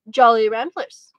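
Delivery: slow, loud and proud, savouring the name; impressively. Acted. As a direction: announce the brand like a treasure. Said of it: "said Tom impressively".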